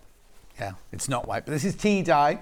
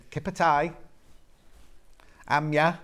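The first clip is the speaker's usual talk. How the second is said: mumbled Black Country. Retold or imitated. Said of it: "but he did mumble".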